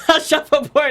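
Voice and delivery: high, puzzled "what"; confused question. Retold or imitated. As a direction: ask baffled. Her confused retold question.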